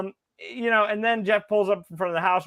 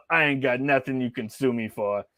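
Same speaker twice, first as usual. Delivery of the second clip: low, badly faked movie-boxer voice; half-hearted attempt at a film tough guy; Sylvester Stallone; 4 semitones lower than usual. Co-host retelling a Rocky Five scene, bad Stallone impression. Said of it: "that was a really bad Sylvester Stallone impression".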